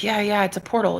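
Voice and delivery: whispered, secretive; knowing whisper. Retold or imitated. Roommate insisting it's a portal, in a knowing whisper. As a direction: breathe it like a shared secret.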